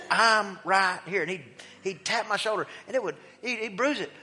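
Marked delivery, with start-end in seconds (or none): 0.1-1.2 slow, firm "I'm right here"; a big man's slow promise; stern marine reminder. Retold or imitated. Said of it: "He goes".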